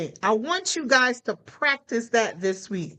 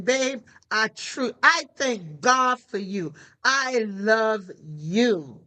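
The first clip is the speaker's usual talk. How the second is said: slow, lower, drawn-out I love you; tender; 3 semitones lower, much slower than usual. Pretend. Telling the spouse for no reason, slow and tender. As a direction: savor each word like a vow. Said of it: "You're just saying".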